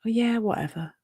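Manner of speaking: airy, dismissive shrug. Acted. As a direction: wave it away lightly. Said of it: "quite dismissive of that voice".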